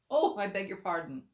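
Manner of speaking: high, loud hasty apology; cried apology. Acted. Alice crying an apology to the bristling mouse, high and loud. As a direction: blurt the apology out in alarm. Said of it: "cried Alice again".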